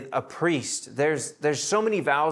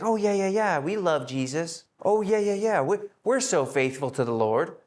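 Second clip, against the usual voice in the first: higher, gushing fake yes-yes; eager liar; 3 semitones higher than usual. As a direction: overeager to cover a lie. Ananias lying to Peter.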